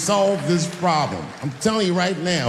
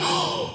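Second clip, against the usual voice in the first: imitated gasp; 5 dB quieter than usual. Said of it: "He said".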